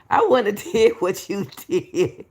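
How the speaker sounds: slow words through a laugh. Real, not acted. Streamer laughs at Sadie's apology, speaking slowly through laughter. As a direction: chuckle while you say it, slowly.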